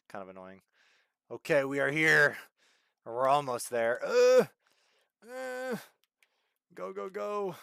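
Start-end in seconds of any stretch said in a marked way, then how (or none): 4.0-7.6 higher, urgent cheering on; excited urging. Real, not acted. Streamer urging the car on in the game, excited. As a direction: urge the car forward.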